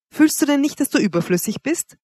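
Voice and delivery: high, sharp rebuke; hard, ugly tone. A narrator's reading. Woman dismissing the man as superfluous, hard and harsh. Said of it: "der hart und hässlich klingt".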